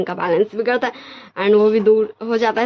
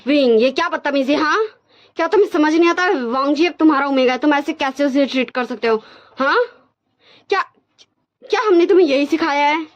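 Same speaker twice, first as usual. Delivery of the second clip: mock scolding yell; 4 semitones higher than usual. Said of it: "wing पे चिल्लाती".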